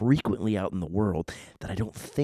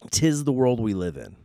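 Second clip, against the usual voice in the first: raised pronouncement; 3 semitones higher, 3 dB louder than usual. Real, not acted. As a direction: declare it in a lifted voice. Repeats closing remark in two ways.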